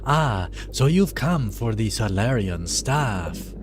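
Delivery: slow, put-on dreadlord voice with an unsure accent; villain voice. Gamer voicing Zarth greeting the thieves, slow and menacing. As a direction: sneer like a storybook villain. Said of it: "what accent I'm giving him".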